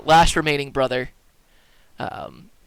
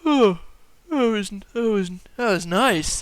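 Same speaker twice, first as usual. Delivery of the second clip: higher, drowsy, dreamy murmur; groggy waking man; 6 semitones higher than usual. Acted. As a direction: play someone blissfully coming to, halting. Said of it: "wakes up, and at first he's like".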